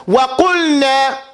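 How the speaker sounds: slow, clear Wa qulna; slow demo reading. Shown as a demonstration. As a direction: say Wa qulna slowly for the class. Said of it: "it says".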